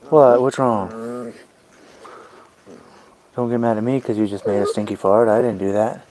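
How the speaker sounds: loud mock outrage at the dog; mock scolding. Owner scolding her dog for a stinky fart, loud mock anger. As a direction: tell the dog off, hammed-up and loud.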